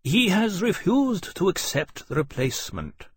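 high, curt character voice; curt officer. A narrator's reading. Officer reporting the dragon's refusal to Lawrence, curt. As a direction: announce it stiffly, pitched well up. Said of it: "Portland said shortly".

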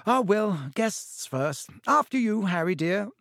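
high, bright motherly lilt; fussing mother offering politely. Acted. Mrs Weasley hostess voice.

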